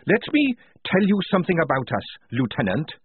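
high, threatening grin in the voice; grinning menace. A narrator's reading. Tonka grinning horribly at the lieutenant, threatening. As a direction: start high, relish the threat. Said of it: "grinning horribly".

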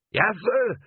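troll reply. A narrator's reading. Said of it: "troll answers".

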